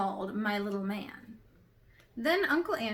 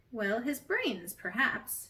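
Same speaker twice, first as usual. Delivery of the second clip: mildly; slower than usual. Acted. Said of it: "she replied mildly".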